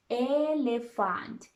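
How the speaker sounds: Elephant said slowly and clearly; teacher model of Elephant; model word. Shown as a demonstration. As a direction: say Elephant slowly for them to copy. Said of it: "Repeat after me".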